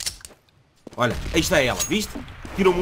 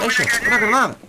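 raised, urgent warning shout; grenade warning yell; 7 semitones higher, 4 dB louder than usual. Real, not acted. Grenade callout shouted again.

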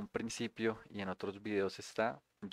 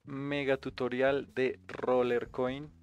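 hype intro; 4 semitones higher, 7 dB louder, much slower than usual. Real, not acted. Energetic YouTube intro shout.

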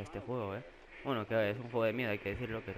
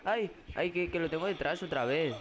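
high frightened wail; scared; 4 semitones higher than usual. Real, not acted. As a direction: whimper at the threat behind. Monstruo detrás otra vez. (quejido asustado, agudo)

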